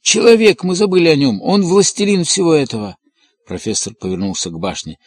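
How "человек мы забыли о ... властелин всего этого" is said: очень высоко и громко, на пределе; вскрикнуть в потрясении, голос рвётся; срывающийся крик. A narrator's reading. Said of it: "закричал он срывающимся голосом". (крик на пределе, голос срывается)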